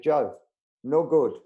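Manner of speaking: blunt refusal in a mock German accent; put-on German accent, punched out. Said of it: "This is my German accent again".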